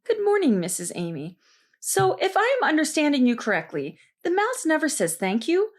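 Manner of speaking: a hint of syrupy sarcasm; sarcastic.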